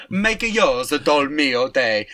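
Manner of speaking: slow put-on Italian ad voice; mock advert. Joking ad slogan for a sponsor, slow Italian voice. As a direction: sell it like a pasta sauce ad.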